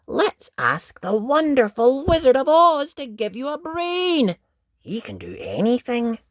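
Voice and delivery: put-on very high, eager little girl; bubbling over with the plan; little girl eager to see wizard; excited. Dot proposes wizard idea.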